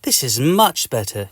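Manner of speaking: satisfied, in the narrator's own register; relieved. Acted. Patient is free of the itch, mildly relieved. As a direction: settle into relief. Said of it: "you say".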